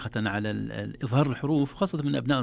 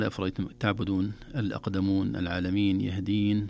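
recited verse; 3 semitones lower than usual. Shown as a demonstration. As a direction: read the verse as in tajwid class. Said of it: "قال".

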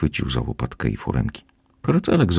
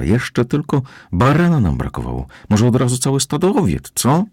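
high, mocking complaint rising higher to the end; sarcastic grumble; 9 semitones higher than usual. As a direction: scoff at the whole idea. (sarkastyczne, wysokie narzekanie Bronki)

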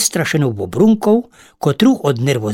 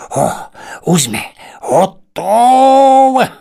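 loud, slow, drawn-out cry of done; triumphant shout; 8 semitones higher, 4 dB louder, much slower than usual. Acted. The spiders shout to the ladybird that they're done. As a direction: call out the finished webs. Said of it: "скричали павуки скоро нараз".

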